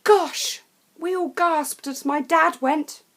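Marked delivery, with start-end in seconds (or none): 0.0-0.6 higher, louder shocked exclamation; gasping gosh. A narrator's reading. Narrator watching the bough snap, shocked. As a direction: gasp out the word. Branch snaps.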